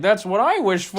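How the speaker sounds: high, loud sitcom punchline; triumphant duck character. Acted. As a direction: crow the punchline through a laugh. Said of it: "And then the duck's like".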